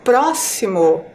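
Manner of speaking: "próximo" said slowly, stress on "pró"; slow stressed word. Shown as a demonstration. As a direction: draw out "próximo", hitting "pró". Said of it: "a sílaba mais forte é a sílaba pró".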